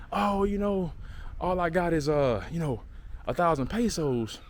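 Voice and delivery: a hint of clueless gringo, drawn out toward the end; playing the gringo. Driver stalling over money he's got, lightly playing the gringo. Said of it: "start playing the little gringo part".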